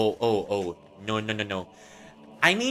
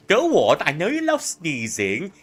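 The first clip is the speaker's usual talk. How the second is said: loud taunting; 5 semitones higher, 7 dB louder than usual. Acted. Taunting character loudly.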